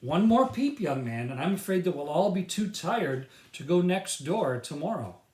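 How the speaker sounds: a father warning his son at bedtime, stern. Acted. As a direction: warn him off, dad style. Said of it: "his father said something".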